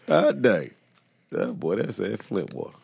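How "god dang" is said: higher and louder through laughter; laughing punchline. Real, not acted. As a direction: toss out the joke while cracking up.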